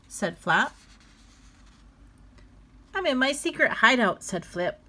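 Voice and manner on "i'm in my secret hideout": put-on secretive child. Flip playing hideout.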